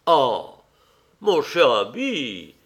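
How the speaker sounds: exclaiming, slow and drawn out; a lightly acted protest; mild exclamation. A narrator's reading. Lady Narborough to her dear friend, mild exclamation. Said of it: "s'écria Lady Narborough".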